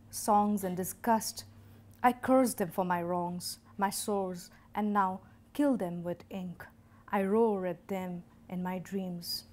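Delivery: measured, emphatic poem reading; deliberate phrases with pauses at line breaks; poetry recitation. Acted. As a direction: declaim it line by line, punching opening words. Recites her own poem.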